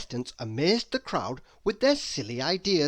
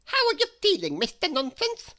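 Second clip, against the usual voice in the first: anxious; 4 dB louder than usual. Acted. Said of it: "asked Mister Silly, anxiously".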